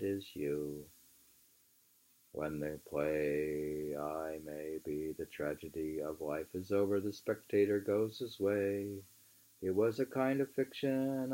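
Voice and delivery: measured, emphatic book reading; reading aloud. Acted. Reading Thoreau aloud to a friend, measured and emphatic. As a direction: read the old essay aloud with weight.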